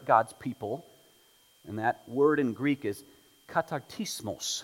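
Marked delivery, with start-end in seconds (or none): 3.5-4.6 katartismos said with a Spanish accent. Shown as a demonstration. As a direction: read the Greek katartismos like a Spanish speaker. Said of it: "I just spoke Greek with a Spanish accent".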